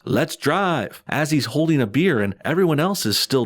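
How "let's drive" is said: a touch of mock excitement, slightly lifted; mildly excited shout. Narrator quoting a dad leaving the event, mildly excited. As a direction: lightly mimic an excited call, no real shouting. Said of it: "Butter's dad excitedly shouts".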